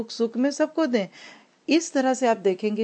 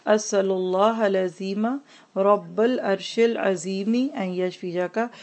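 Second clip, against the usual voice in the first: model recitation. Shown as a demonstration. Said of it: "आप ये सात दफ़ा पढ़िए".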